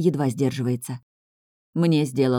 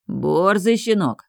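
growled insult; 3 semitones higher, slower than usual. Acted. Big man growling at the cocky son, slow mild growl. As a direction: spit it out slowly like a threat. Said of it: "прорычал большой".

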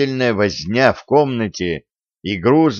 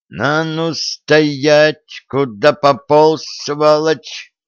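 put-on higher, slow drunken shout; drunken yell; 5 semitones higher, much slower than usual. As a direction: bellow at him, drunk. Drunk brawl in the yard.

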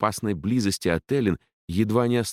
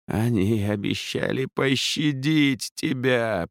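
slow, higher groaning plea; moaning; 6 semitones higher, slower than usual. A narrator's reading. The defeated captain moaning to Ellin. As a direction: moan it out in despair. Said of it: "простонал капитан".

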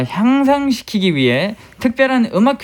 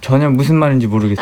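laughing; 5 semitones lower, much faster than usual. Real, not acted. Confused, laughing at kindergarten names.

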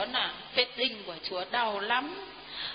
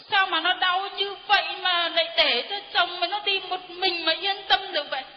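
scolding; 5 semitones higher than usual. Retold or imitated. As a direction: tell her off sharply. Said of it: "Con chửi vợ nó".

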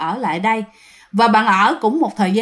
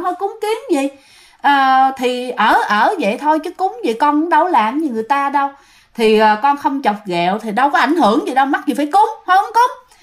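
stubborn refusal; 3 semitones higher than usual. Retold or imitated. Young renter brushing off mother's ritual offering, stubbornly dismissive. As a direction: brush the idea off, pitch climbing high.

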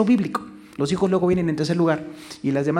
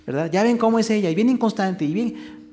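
complaining husband; 3 semitones higher than usual. Retold or imitated. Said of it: "hablando mal de su esposa".

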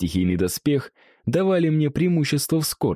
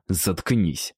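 icy, curt dismissal; cold; 4 semitones lower than usual. Acted. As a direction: shut him down coldly. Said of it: "холодно проговорил я".

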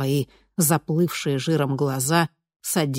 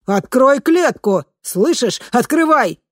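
higher, louder demanding yell; demanding shout; 8 semitones higher, 7 dB louder, slower than usual. A narrator's reading. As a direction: bang the bars and demand out. Locked in, demanding release. (требовательный крик, выше и громче)

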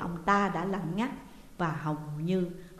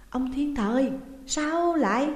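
alarmed, puzzled; 6 semitones higher, 4 dB louder, slower than usual. A narrator's reading. Surprised at husband on floor.

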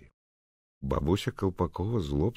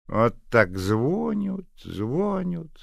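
slow, high mocking singsong; grumbling old woman; 13 semitones higher, 7 dB louder, much slower than usual. Old neighbour sneering at Nadya's phone calls, slow and mocking. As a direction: nag with slow sarcasm. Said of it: "проговорила бабуся Колпакова".

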